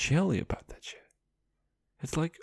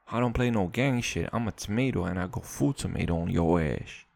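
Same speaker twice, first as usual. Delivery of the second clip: lightly voiced bad Black American accent; a clumsy hint of a Black American street accent; 4 semitones lower than usual. Vlogger voicing a tomato in a bad Black American accent. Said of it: "that's the worst black accent".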